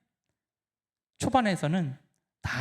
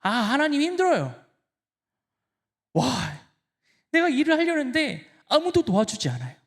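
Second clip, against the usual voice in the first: pleading complaint; 6 semitones higher than usual. Pretend. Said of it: "힘드시면 하나님께 토로하십시오".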